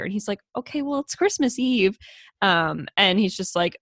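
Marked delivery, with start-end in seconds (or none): 0.6-2.0 lightly voiced sweet little brother; higher, mild-toned innocent reply; Peter. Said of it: "has the sweetest, like, most mild toned".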